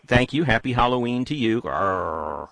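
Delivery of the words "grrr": low, drawn-out "grrr"; playful pirate growl. Pretend. Host to caller after a Halloween greeting, playful growl.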